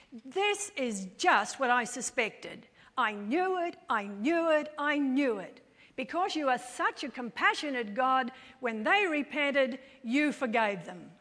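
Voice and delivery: a touch of indignant complaint; lightly acted accusation, pressing each phrase; mildly angry Jonah. Jonah complaining to God, mildly indignant. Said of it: "He becomes angry".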